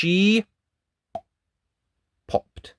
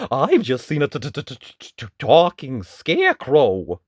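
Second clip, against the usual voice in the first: frightened stutter; 6 dB louder than usual. Acted. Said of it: "he wailed".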